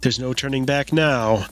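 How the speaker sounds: ghost host. Acted. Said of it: "I'm your host, your ghost host".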